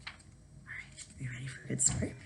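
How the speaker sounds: hushed question. Real, not acted. Teacher builds suspense before reading.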